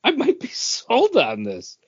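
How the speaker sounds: mock convinced. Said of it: "I'm like".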